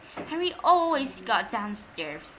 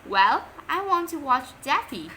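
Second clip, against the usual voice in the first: put-on smug child; 4 semitones higher, 4 dB louder than usual. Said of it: "said Perfect Peter".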